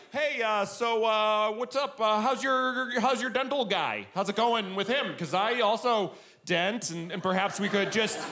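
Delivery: casual, hesitant sales pitch; lightly acted tentative small talk; soft sell. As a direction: feel them out with a mock-casual approach. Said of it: "the soft sell where I can be like".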